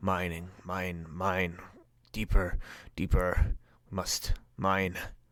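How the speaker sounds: hushed, slow, repetitive muttering under the breath. Voicing creatures picking at a cavern wall: muttering creatures. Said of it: "you can hear them muttering".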